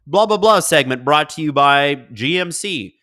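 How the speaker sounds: a hint of broadcast announcer; mock sponsor read. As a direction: rattle off a placeholder sponsor plug. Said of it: "You know, when you see, like".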